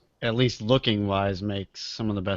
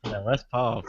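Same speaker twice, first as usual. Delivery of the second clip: put-on Korean accent. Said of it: "I was doing a Korean voice".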